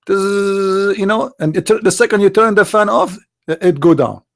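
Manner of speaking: lightly voiced mocking sermon to followers; mock prophet voice. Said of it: "Do you know what Muhammad was preaching?".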